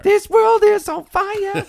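high, slow grand announcement; dramatic proclamation. Pretend. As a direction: intone it like an epic trailer.

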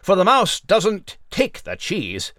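crisp mock newscaster delivery; news read. Mouse Nigel reporting to listeners, in a pompous newsreader voice. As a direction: present it like a formal evening bulletin.

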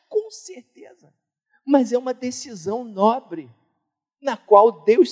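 high, ringing preacher's call; fiery preaching. Acted. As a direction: lift the congregation with conviction. Preaching at full force.

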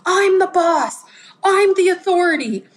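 high, loud parental yell; shouting down the kids, I'm the parent; mock yelling at kids. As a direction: bellow it like the boss of the house. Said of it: "I've been guilty of yelling at my kids".

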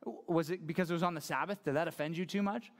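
sarcastic. Retold or imitated. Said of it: "he's asking a sarcastic question".

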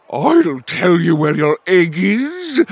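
high, loud, slow character voice; drawn-out, indignant yell; angry interrupting shout. Acted. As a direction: announce it loudly from the doorway. Angry voice bursts in from doorway.

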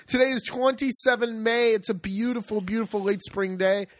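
upbeat TV weather forecaster; weatherman voice. Pretend. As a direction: sell the sunny forecast brightly. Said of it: "Is that my good weatherman voice".

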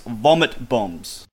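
Vomit Bombs said very slowly and dryly; slow deadpan. Shown as a demonstration. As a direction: drag out Vomit Bombs with a dry punchline feel. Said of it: "as we like to call 'em".

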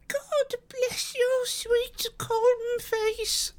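put-on very high, slow, tearful old woman; hysterical sob. A narrator's reading. Housekeeper blesses her kind visitor, hysterical sobbing voice. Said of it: "she cried, with a hysterical sob".

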